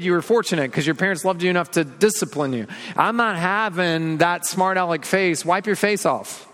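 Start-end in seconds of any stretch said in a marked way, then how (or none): 3.0-6.5 a hint of a stern parent, slower and higher; mock-scold a child for a smart-aleck face. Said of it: "your parents said something like that to you".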